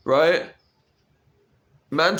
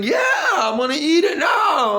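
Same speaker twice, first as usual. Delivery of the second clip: put-on much higher, eager shouted boy voice; imitating the boy; 13 semitones higher than usual. The boy with the crackers answering, high eager shout. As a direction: play the excited kid with his snack. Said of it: "And he's like".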